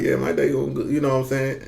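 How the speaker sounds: softly slurred Southern reply; Southern dialect. Retold or imitated. Answering someone who asked about his day, Southern dialect. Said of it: "I'm speaking in a Southern dialect".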